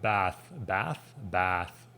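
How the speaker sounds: BATH with a short American A; BATH without the long A. Shown as a demonstration. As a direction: repeat BATH with the A of cat. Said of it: "We don't say it with the long A".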